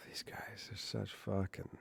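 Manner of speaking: hushed whispered aside. Real, not acted. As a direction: whisper it under your breath. Unvoiced whisper.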